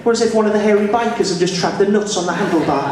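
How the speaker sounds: high, quick Geordie voice; Geordie accent. Shown as a demonstration. Comedian joking about his own impression, high Geordie accent. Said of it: "Geordie's easy".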